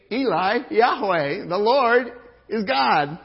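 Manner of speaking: loud, high crowd cry; shouted proclamation. Retold or imitated. Preacher voicing the crowd, loud high shout. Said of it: "They're saying".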